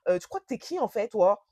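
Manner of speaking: mild mock telling-off; imitated scolding. Boyfriend scolding her at the airport, mildly imitated telling-off. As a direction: nag indignantly, a toned-down retold rant. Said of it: "il commence à me crier dessus".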